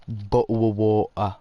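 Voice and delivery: drawn-out "bottle of water" with swallowed T's; mock British glottal stops. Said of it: "America, you can have the bottle of water".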